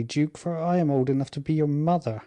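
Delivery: a touch of gentle weight on the last words; gentle emphasis. Acted. Queen gently reminds the young duke of her age, lightly stressed and tender. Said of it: "She emphasized these latter words in a manner and with a gentleness".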